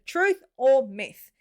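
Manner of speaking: slow, drawn-out game-show question; segment announcer. Acted. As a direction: announce it like a quiz host, slowly. Conclusion of segment.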